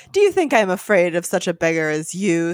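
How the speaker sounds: put-on mildly scornful young snob; understated haughty sneer. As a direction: scoff at the very idea. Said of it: "sneered Godfrey".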